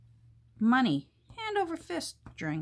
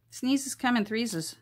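playful; 5 semitones higher, 4 dB louder, slower than usual. Real, not acted. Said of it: "Sneezes always come in threes".

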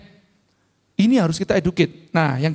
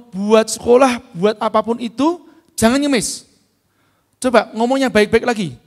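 stern scolding; 3 semitones higher, 5 dB louder than usual. Retold or imitated. Scolding a begging kid.

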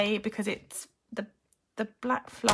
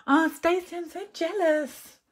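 excited envy; 8 semitones higher, 5 dB louder than usual. Real, not acted. Reacting to viewer's comment.

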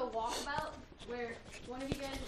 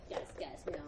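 mock security guard; 3 dB quieter than usual. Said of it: "be like".

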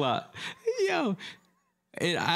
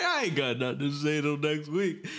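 put-on drunk uncle voice; 4 dB louder than usual. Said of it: "You sound like my drunk uncle".

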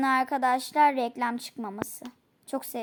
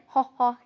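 witch cackle; 6 dB louder than usual. Retold or imitated. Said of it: "cadıların bir gülme tarzı vardır".

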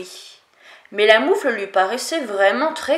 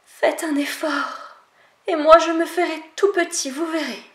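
higher, wheedling promise to squeeze in; lightly voiced sly fox pleading; coaxing fox; 5 semitones higher than usual. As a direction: fox coaxing the animals to let him in. Fox coaxes to get in.

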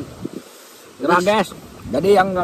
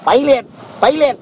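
laughing; 6 semitones higher than usual. Real, not acted. Giggling over repeated word.

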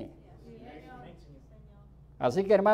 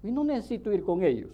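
mock complacent believer; 2 semitones lower than usual. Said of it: "Usted dice".

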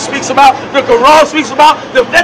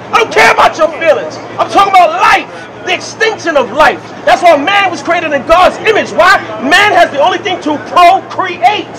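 shouting; 3 semitones higher than usual. Real, not acted. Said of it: "You're shouting at me".

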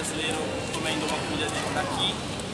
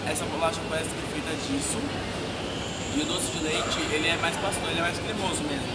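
eating snack between words; talking while chewing. Real, not acted. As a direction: mouth partly full of cookie. Seen 0: Holds bitten cookie, bites at 3.0s, keeps talking while eating.

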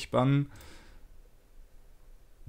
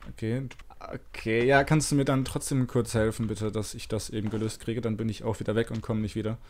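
digitally distorted voice; voice changer. Real, not acted. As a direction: speak through a voice changer. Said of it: "ich mach mal den Stimmverzerrer kurz aus".

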